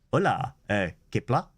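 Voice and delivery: mock Spanish-accented Klingon, low in pitch. Co-host improvising a Spanish Klingon, mock Spanish accent. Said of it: "how would you do a Spanish".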